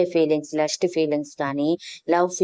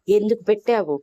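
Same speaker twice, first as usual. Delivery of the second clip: shout; 5 semitones higher than usual. Acted. Husband yelling at wife after her sudden kiss, shouting high. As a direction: yell it out in disbelief. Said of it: "అని అరుస్తూ".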